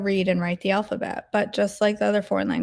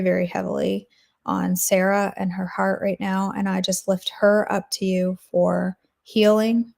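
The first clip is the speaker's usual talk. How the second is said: prayer. Acted. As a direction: pray it sincerely, unhurried. Closing prayer for Sarah.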